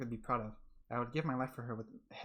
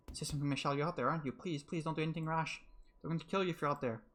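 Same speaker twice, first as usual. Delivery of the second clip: put-on higher, anxious girl begging; pleading Giselle; 4 semitones higher than usual. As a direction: beg him not to do anything rash. Giselle pleads through door.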